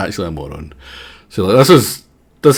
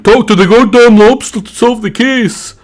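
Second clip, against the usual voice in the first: a loud, higher mock yell at the screen; mock viewer yell; 9 semitones higher, 4 dB louder than usual. An impatient viewer yelling at the streamer, mock shout. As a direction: bark the order like an impatient viewer. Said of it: "if you're screaming at your thing".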